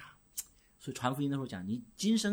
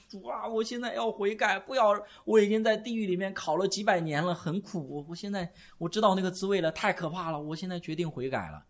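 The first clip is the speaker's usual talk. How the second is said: lightly voiced sinner begging from hell, higher; a hint of a desperate plea to the Lord; mock pleading sinner; 5 semitones higher than usual. Damned sinner begging Jesus for a late chance, lightly mock pleading. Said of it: "有些人跟求主耶稣".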